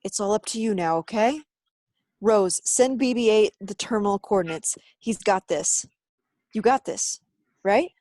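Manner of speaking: high, forceful pep talk; urgent encouragement. Acted. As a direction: send a friend off on a vital mission. Urgent handover of mission.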